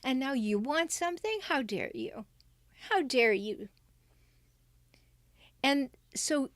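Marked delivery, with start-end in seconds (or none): 0.0-3.7 lightly voiced indignant parent; mock the selfish parent's outrage; a hint of an indignant parent; self-absorbed parent. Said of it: "hijackal parent".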